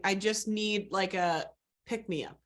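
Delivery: eating fruit snacks while talking; mouth full. Real, not acted. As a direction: talk through a mouthful of candy. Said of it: "I'm sorry I'm eating".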